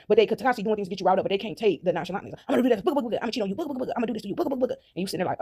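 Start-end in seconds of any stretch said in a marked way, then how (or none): 2.5-4.7 singsong booga booga taunt, a bit higher; mocking taunt. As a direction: tease like a cartoon bogeyman. Mocking a jealous schemer.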